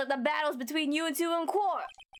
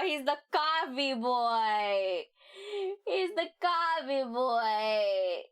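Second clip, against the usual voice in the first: laughing; much slower than usual. Real, not acted. Cracking up at the line.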